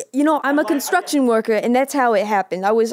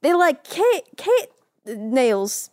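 put-on a light New York accent, pitched up; a lightly voiced New York guy explaining, pitched up. Construction worker to doctor, light New York accent. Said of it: "He's got a New York accent".

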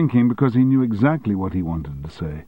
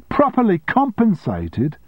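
much higher, slow, incredulous outburst; shouted; 12 semitones higher, 4 dB louder than usual. A narrator's reading. Secretary throwing her boss's offer back, shouted. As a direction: fling the words back at him. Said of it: "shouted Sally".

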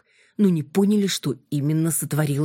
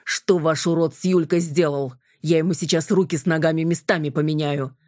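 menacing. Acted. Kolya threatening the blond's friends, menacing. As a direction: threaten to rearrange his limbs. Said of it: "грозно отозвался Коля".

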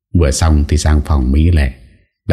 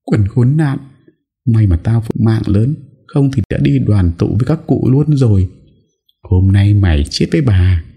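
higher, mildly acted furious cursing; 6 semitones higher than usual. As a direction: curse her while kicking. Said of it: "vừa đạp vừa rủa". (giọng chửi rủa giận dữ)

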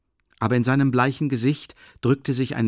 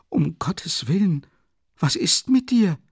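whispered plea rising to a high frightened cry; fearful mother; 10 semitones higher, 5 dB louder than usual. A narrator's reading. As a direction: gasp it out, then cry out in alarm. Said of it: "fragte die Mutter angstvoll". (ängstlich, geflüstert, dann hoch aufschreiend)

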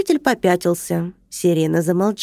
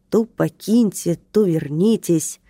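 медленно, недовольно; протяни с обидой; ворчливо; slower than usual. Acted. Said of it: "проворчал нарушитель". (нарушитель ворчит на противоречивые приказы)

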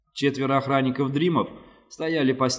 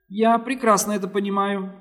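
thin, high whistling alien voice; high and hissing, like a small creature; 8 semitones higher, 3 dB louder than usual. A narrator's reading. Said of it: "тоненьким, свистящим голосом".

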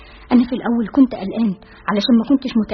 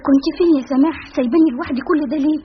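higher and louder, quick teasing reproach; reproachful question; 5 semitones higher, 4 dB louder, faster than usual. Acted. Mona to Samah, who left her alone: lively reproach. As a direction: press her friend for answers, half scolding.

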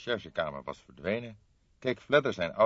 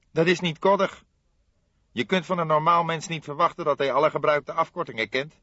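lightly voiced aggrieved young man, higher; a young colleague, a touch higher and put out; young detective voice; 10 semitones higher, 9 dB louder than usual. Fledder protesting to his older colleague, lightly voiced aggrieved.

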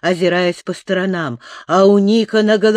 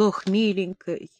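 muffled sobbing; 5 dB quieter than usual. A narrator's reading. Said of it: "глухо рыдал".

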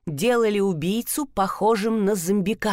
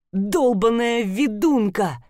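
spitting insult; slower than usual. Acted. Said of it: "плюнул гадёныш".

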